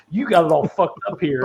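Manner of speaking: retold detective.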